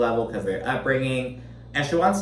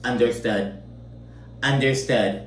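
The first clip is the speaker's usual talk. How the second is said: retold curt annoyance, word by word with pauses; mildly annoyed. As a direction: mildly imitate someone trying to shut the other person down. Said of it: "Lisa gets so annoyed".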